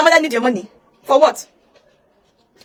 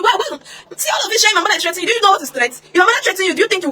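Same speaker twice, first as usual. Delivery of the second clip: indignant high-pitched shout; outraged high voice; 6 semitones higher, faster than usual. Real, not acted. Rejecting the nurse's threat claim, indignant high shout. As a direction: cry out in disbelief, much higher. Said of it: "outraged at nurse".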